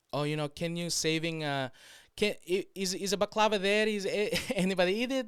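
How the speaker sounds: high, stumbling put-on voice; imitated coworker. Coworker asking her son about leftovers, high stumbling mock voice. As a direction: fumble the question in a high voice. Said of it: "So she's saying".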